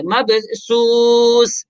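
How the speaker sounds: مبثوث drawn out with a hissing s for th; mispronounced th as s. Retold or imitated. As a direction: imitate pupils saying مبثوث with s sounds. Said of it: "سا کو سین پڑھ رہے تھے".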